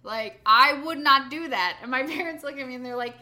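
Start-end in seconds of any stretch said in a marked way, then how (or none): 0.0-1.8 defensive brother. Retold or imitated. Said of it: "Kevin was like".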